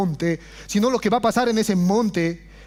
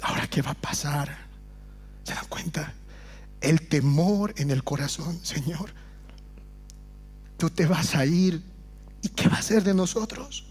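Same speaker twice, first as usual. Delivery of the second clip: much softer and lower, almost to himself; hushed and fearful; 6 semitones lower, 8 dB quieter than usual. Acted. Preacher voicing doubting disciples before their Lord, hushed. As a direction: let the doubt creep in quietly.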